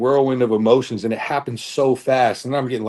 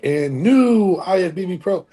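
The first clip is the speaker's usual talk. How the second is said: higher, slow stage announcer voice; announcer call; 6 semitones higher, slower than usual. Retold or imitated. Announcer calling new pro.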